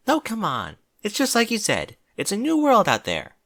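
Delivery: high-pitched, mildly consoling voice. Acted. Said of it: "said Twilight consolingly".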